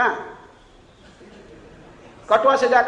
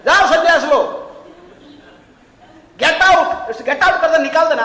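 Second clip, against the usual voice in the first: loud, higher, fierce dismissal; 6 semitones higher, 9 dB louder than usual. Retold or imitated. Sage teaching wife to shout her husband out, fierce. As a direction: shout him out of the house. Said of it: "एकदम उग्र होना".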